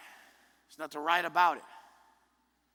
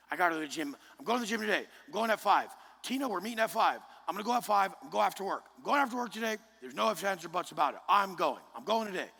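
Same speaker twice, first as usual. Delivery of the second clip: inner voice; 3 semitones higher, faster than usual. Retold or imitated. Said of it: "that voice in your head".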